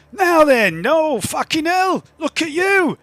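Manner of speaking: high, loud gruff barkeep voice; big rough man. Acted. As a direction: boom it out like a big coarse brute. GM voices Les, big waddling man.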